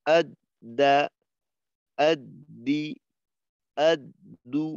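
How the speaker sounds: আদ, দা with the দ held and doubled; tashdid doubled d. Shown as a demonstration. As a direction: double the d firmly. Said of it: "তাসদিদ".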